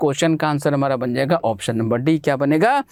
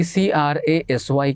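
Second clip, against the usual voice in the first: slow spelling out; much slower than usual. Shown as a demonstration. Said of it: "ये देखिए क्रेसी".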